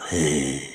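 villainous chuckle. Acted. Barber amused by hanging talk, gloating chuckle. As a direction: chuckle to yourself at the threat.

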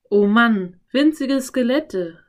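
loud, amazed exclamation; exclaiming. A narrator's reading. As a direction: burst out in amazement, drawing it out. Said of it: "rief Philipp".

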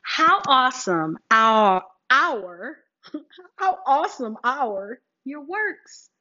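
drawn-out, slow, leading the crowd; slow call and response. Shown as a demonstration. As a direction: lead them through it slowly. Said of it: "say it with me one more time".

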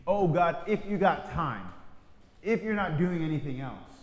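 offhand, hedging ask; mock casual prayer. Believer lazily hedging prayer, offhand. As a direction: treat God as busy. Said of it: "There's a contingency".

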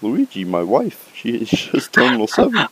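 pleading Italian plumber, rising to a wail; melodramatic Mario voice. Pretend. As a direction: beg like a soap opera brother. Mario brothers melodrama skit.

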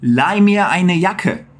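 "Leih mir eine Jacke" slow, each word apart; slow clear German model. Shown as a demonstration. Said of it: "como é que você acha".

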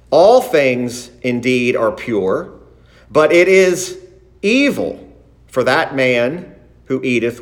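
deliberate scripture read with added emphasis. Shown as a demonstration. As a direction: read the verses aloud from the pulpit, stressing phrases. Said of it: "I did that intentionally".

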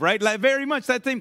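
normal talking voice

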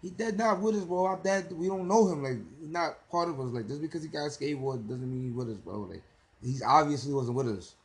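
a hint of panicky teens; skaters protesting. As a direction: play the skaters insisting he's not with them. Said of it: "the skaters, they were like".

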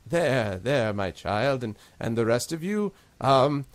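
lightly voiced old gnome, comforting then startled; a hint of grandmotherly gnome; kindly gnome priest. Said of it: "and he says".

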